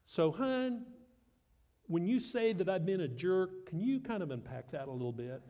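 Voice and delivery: gentle husband question. Shown as a demonstration. Husband gently asks wife to explain, lightly acted. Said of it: "it's a clarifying question".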